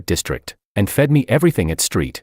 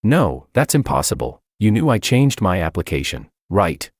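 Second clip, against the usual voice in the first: frantic. Acted. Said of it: "jumbled and frantic".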